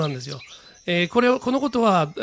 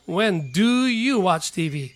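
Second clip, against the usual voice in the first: slow, careful English; teacher's slow example sentence; slow model reading; much slower than usual. Shown as a demonstration. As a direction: read it out slowly for review. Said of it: "whenの疑問文見て".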